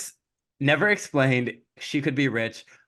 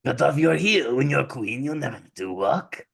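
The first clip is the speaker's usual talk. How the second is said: put-on French accent; coaxing order in a French accent; French stepmother. Stepmother urging daughter to cut her heel, French accent. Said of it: "so she's French".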